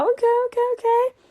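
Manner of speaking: high-pitched, repeated okays; impressed reaction. Retold or imitated. Voicing own approving reaction.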